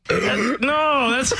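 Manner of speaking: bursting into laughter; can't stop laughing. Real, not acted. Cracking up at burp clip.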